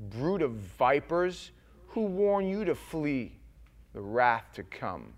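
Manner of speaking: slow, measured prophet's rebuke; John the Baptist rebuke. Acted. Preacher reading John's words to Pharisees, stern. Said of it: "he said to them".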